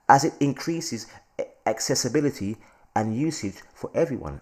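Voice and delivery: lightly put-on posh English reading. Host reading crypto news to viewers, posh voice. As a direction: read it out in a mock posh English accent. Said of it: "I'm doing my posh voice".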